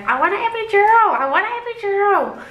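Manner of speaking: high, fast, repeated plea; high fast insistent plea; pleading demand. Retold or imitated. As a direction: beg for the epidural in pain. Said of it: "I was like".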